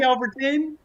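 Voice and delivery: high shouted count; shouted referee count. Real, not acted. Calling the ten count.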